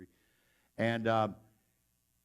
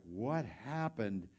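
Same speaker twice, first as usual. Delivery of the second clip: slow, groggy bewilderment; dazed question; 4 dB quieter, much slower than usual. Retold or imitated. Soldier waking beside the path, dazed and slow. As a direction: draw it out as if coming to.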